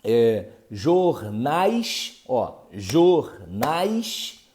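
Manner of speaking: jornais drawn out slowly, each syllable apart; slow syllable demo. Shown as a demonstration. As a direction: stretch out jornais slowly like a teacher. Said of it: "no ditongo você tem". (pronúncia lenta de "jornais", sílaba por sílaba)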